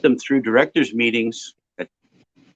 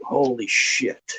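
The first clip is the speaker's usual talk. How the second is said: stunned; 5 dB quieter, much slower than usual. Retold or imitated. Stunned at the scene.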